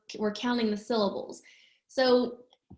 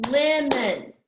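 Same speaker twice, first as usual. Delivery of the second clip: lemon in two strong beats, LEM-on; "lemon" split for clapping along; two clapped syllables; 4 dB louder than usual. Shown as a demonstration.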